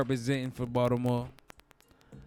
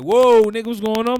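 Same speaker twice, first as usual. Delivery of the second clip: boxer's greeting; 7 semitones higher, 12 dB louder than usual. Retold or imitated. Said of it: "Throw his fist up like".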